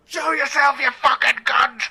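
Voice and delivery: mock furious rant; hammed-up ranting boss; angry producer rant. Producer yelling at heckler.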